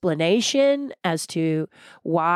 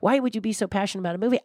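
quick, slightly higher incredulous question; taken-aback husband; 4 semitones higher, much faster than usual. Retold or imitated. Husband questioning wife's passion over a movie, mock bafflement. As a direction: rattle it off like a baffled spouse. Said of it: "So my husband just goes".

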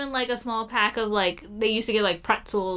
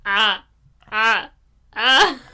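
imitated slow laugh; 5 dB louder, much slower than usual. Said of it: "no more like".

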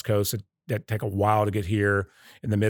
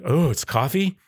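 higher-pitched questioning echo; retold surprise; 5 semitones higher, slower than usual. Customer learning the beer is coffee, retold surprise. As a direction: customer taken aback, lifting the "Oh".

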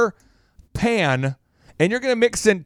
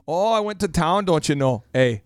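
light folksy Minnesotan lilt; Minnesotan accent; 2 semitones lower than usual. Acted. Telling someone about the weekend, mock Minnesotan. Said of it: "you'll start to speak Minnesotan".

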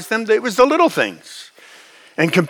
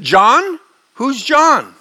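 mildly baffled, higher questioning tone; puzzled; 5 semitones higher, much slower than usual. Retold or imitated. Young mom to caller about unknown John, puzzled. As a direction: question it as if the name means nothing.

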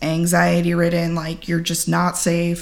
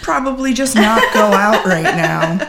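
laughing quote; 3 semitones higher, 4 dB louder than usual. Retold or imitated. Quoting best friend, laughing.

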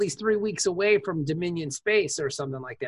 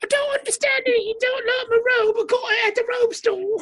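high, loud mock British accent; hammed-up British; 13 semitones higher, 4 dB louder than usual. Friend bickering about his court robe, mock British accent. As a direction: play a flustered Brit in a robe.

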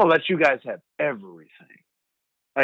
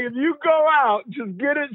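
higher, louder motherly fuss; imitating mom; 11 semitones higher, 4 dB louder than usual. Son imitates mother urging him to take an Uber, higher motherly fuss.

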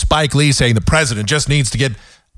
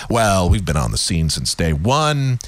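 mock spin doctor; 9 semitones lower than usual. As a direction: drone it like a rehearsed spokesman. Mimicking spokesmen's evasive speeches.

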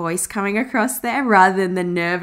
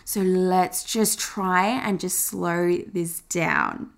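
self-talk slowing down; 3 semitones lower, 3 dB quieter than usual. Retold or imitated. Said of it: "I'd think".

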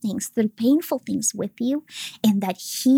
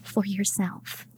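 voice of God. Retold or imitated. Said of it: "He said".

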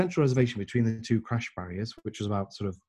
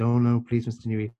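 imitated Indian accent, lightly pleading. Man pressing Mister Newey to accept, light Indian accent. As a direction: insist with a touch of Indian English. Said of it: "in an Indian accent".

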